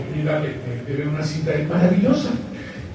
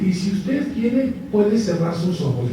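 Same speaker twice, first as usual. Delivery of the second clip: hypnotic suggestion; 2 semitones higher, slower than usual. Retold or imitated. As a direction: lull him into closing his eyes. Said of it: "ese tonito de voz".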